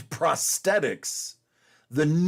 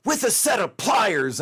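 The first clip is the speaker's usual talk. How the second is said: higher, raised retold shout at pliers; hammed-up outraged customer yelling; mock yell; 5 semitones higher than usual.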